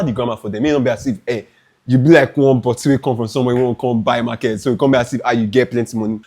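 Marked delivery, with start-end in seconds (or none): 1.9-6.2 a light demo of Nigerian Pidgin English. Shown as a demonstration. Showing viewers how to bargain, lightly in Nigerian Pidgin. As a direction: drop into Nigerian Pidgin, grammar scattered. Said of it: "See, speak pidgin English".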